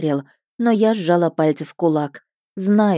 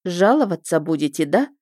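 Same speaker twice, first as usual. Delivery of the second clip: mock gentle. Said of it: "ласково спросила я".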